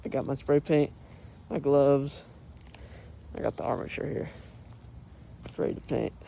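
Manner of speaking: talking muffled behind a face mask; muffled through mask. Real, not acted. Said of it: "sorry if it's muffled, I have a mask on".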